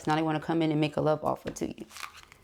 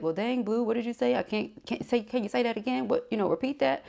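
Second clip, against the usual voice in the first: higher, puzzled listener asking for a repeat; confused listener; 6 semitones higher than usual. Retold or imitated. Reader imitating a puzzled viewer who missed the message, higher pitched. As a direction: play a viewer who couldn't catch a word. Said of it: "So if it sounds like".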